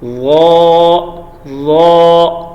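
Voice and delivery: ظا said loud and soft-edged; touch the teeth for a soft ظا; soft zaa. Shown as a demonstration. Teacher models ظا written as وا. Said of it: "یہ بالکل نرمی سے".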